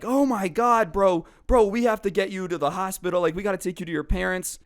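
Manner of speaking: high, fast, frantic urging; panicked urging. Retold or imitated. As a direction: rush the words out, panicking for a hurt friend. Panicked friends see injured buddy.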